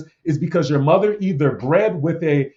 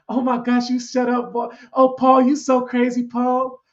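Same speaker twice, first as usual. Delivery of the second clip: much higher, hammed-up soft falsetto; squealing, giggly impression of a soft interview voice; mock impression of a famous singer; 8 semitones higher, 3 dB louder than usual. Host mocks a famous singer teasing Paul, high and playful. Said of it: "that soft voice, that little soft female voice".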